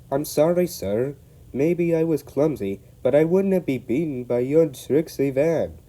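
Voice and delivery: high, loud defiant Scots apology; Scottish apology. Acted. Douglas apologising to the Fat Controller, defiant Scottish. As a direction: apologise but stand firm. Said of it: "said the Fat Controller".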